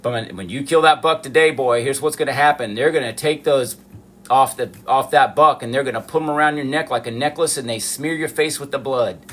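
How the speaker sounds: lightly imitated Southern father; mild Southern dad voice. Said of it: "that's how my dad spoke".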